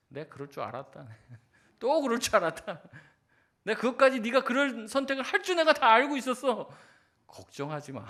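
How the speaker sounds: laughing, loud, indulgent voice of God; God's voice. Acted. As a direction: play God chuckling at a choice he foresaw. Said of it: "뭐라고 얘기할까요?". (웃으며 크게 말하는 하나님의 목소리)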